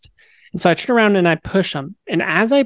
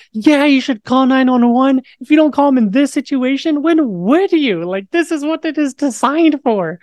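higher, exasperated mock rant; a touch of sarcastic fury; replaying an annoyed outburst at strangers; retold anger; 8 semitones higher than usual. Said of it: "my only emotion at this time is just anger".

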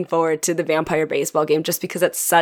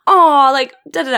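offended aw; 7 semitones higher, 7 dB louder than usual. Retold or imitated. Reacting to the teacher joke in the show, offended-sounding aw. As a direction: sound hurt on the audience's behalf. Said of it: "I guess I sounded really offended".

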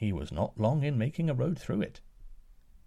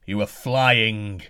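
louder, very slow drawn-out bellow; 5 dB louder, much slower than usual. Acted. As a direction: stretch it into a long angry bellow. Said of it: "the giant bellowed".

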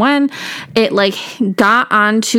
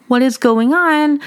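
slow, higher-pitched bewildered alarm; mock-alarmed, drawn out and raised in pitch; retold freak-out; 5 semitones higher, slower than usual. Retelling her fright during a fire alarm, freaking out. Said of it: "I'm freaking out".

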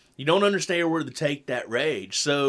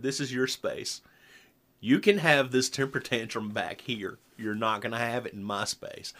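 quiet, even and calm, retold to the child; 4 semitones lower, 4 dB quieter than usual. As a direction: lay it down calmly, no heat. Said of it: "I said it that calmly".

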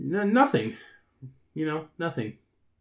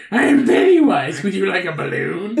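lightly voiced Pennywise offering a balloon; 3 semitones higher, 4 dB louder than usual. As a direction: lure them in like a clown. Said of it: "And he goes".

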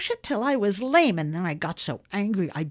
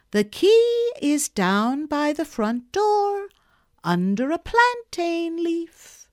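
slow, gentle, patient coaxing; gently and slowly; 8 semitones higher, 4 dB louder than usual. A narrator's reading. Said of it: "very gently and slowly".

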